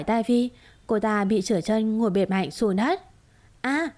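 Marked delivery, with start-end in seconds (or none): 3.6-3.9 short sharp cry of pain as she falls; a sudden yelp of hurt. A narrator's reading. Woman on the floor cries out in pain, a short sharp yelp. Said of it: "ôm bụng kêu la".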